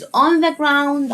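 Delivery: on the ground drawn out very slowly, aw in ground clear; slow modelled phrase. Shown as a demonstration. Teacher modelling on the ground slowly for children. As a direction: say on the ground slowly for kids to repeat. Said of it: "ال O وال U أنطقها آو".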